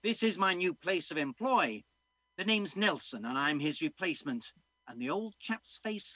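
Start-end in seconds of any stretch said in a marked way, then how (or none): 0.0-4.5 put-on young man. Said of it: "said the young man".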